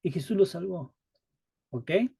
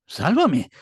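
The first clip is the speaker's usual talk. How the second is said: simple plea; 6 dB louder than usual. Retold or imitated. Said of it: "no dices".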